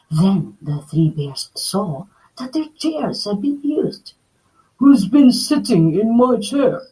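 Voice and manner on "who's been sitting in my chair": a touch of a louder Papa Bear howl; mild howl. Acted. Papa Bear finding his chair used, mild howl. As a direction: bellow it lightly. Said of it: "Papa Bear howled".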